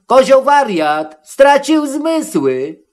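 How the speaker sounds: high, drawn-out alarmed shout; high-pitched wail, stretched at the end; great cry. A narrator's reading. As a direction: cry out high as scattering calves. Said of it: "Z wielkim się rozbiegły krzykiem".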